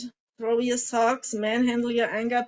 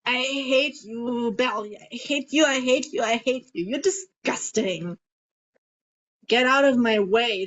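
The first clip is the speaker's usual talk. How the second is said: angry crying. Shown as a demonstration. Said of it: "you need to let it out? Like".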